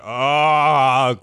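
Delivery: put-on high cracking teen "cool"; squeaky teen. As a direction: squeak it like a startled boy. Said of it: "he was just like".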